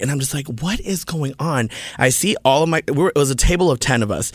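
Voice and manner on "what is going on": slow, softer disbelieving question; hushed, bewildered aside; retold bewilderment. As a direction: draw it out under your breath, baffled. Retells own bewilderment when shuttled aside.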